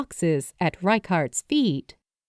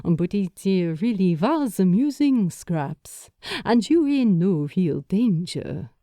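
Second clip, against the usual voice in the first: gentle amused man. A narrator's reading. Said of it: "he said gently".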